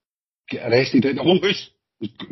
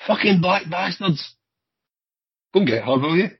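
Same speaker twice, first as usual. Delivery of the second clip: retold scream; 6 semitones higher than usual. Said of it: "the woman screams out the window".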